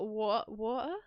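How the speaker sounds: hesitant British 'water'; British accent. Shown as a demonstration. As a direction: try saying 'water' the British way. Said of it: "Say, say water in British".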